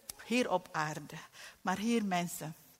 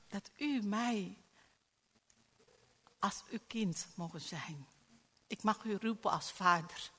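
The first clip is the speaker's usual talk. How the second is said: led prayer. Acted. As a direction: pray it gently for them to echo. Leads congregation prayer.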